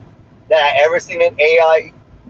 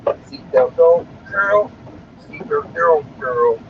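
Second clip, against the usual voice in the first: squealing cheer; 4 semitones higher, much slower than usual. Pretend.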